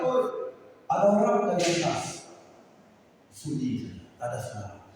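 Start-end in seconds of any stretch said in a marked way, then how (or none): 0.0-2.3 acted call for help, raised pitch; mildly shouted plea from a cliff edge. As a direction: call up to whoever might be there. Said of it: "dia mulai teriak".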